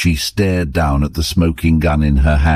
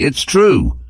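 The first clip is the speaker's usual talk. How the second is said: pitched much higher, breaking with pain; anguished confession; 11 semitones higher than usual. A narrator's reading. Husband admitting the truth, anguished high cry. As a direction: wrench the words out in agony. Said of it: "Gordon burst out in agony".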